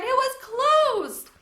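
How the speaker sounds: high, slow sobbing wail; crying. Acted. Girl insists the cage was closed, sobbing. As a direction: sob it out. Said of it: "Sophie cried".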